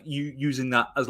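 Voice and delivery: ordinary talk, nothing marked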